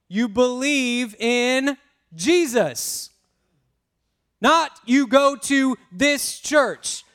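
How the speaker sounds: a preacher carried away by his point; getting excited. Real, not acted. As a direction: press each point home with growing excitement. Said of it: "Sorry, I'm getting a little excited".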